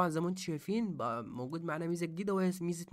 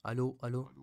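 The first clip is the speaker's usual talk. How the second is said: female voice filter. Shown as a demonstration. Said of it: "لو جينا عند الأنثى".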